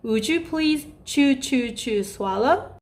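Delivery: put-on child-level talk. Shown as a demonstration. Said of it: "어린아이 수준에 맞게".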